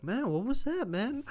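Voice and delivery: high, bemused aside; half-laughing bafflement; lightly voiced puzzled boss; baffled Aldis. Aldis reacting to the exchange.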